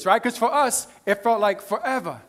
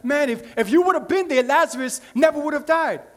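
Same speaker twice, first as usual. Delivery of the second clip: complaining sister, voice lifted and pushed; 5 semitones higher than usual. Retold or imitated. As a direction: throw the blame at him, pitched up. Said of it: "She could have been complaining".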